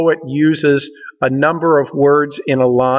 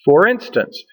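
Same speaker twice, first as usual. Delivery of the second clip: for instance with for light and the in of instance stressed, a bit higher; rhythmic demonstration; 5 semitones higher than usual. Shown as a demonstration. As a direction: tap out for instance as short, long, short. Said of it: "short syllable for, a long syllable in".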